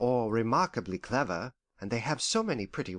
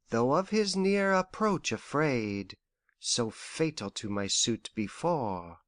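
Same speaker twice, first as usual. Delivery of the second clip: slow, measured recitation of a poem; reciting verse; slower than usual. Retold or imitated. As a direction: recite the stanza slowly, savouring each line. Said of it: "I can only recollect the first stanza".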